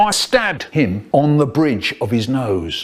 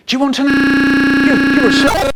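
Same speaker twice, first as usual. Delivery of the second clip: mum scolding; 12 semitones higher, 7 dB louder than usual. Retold or imitated. Mum's angry quote cut off.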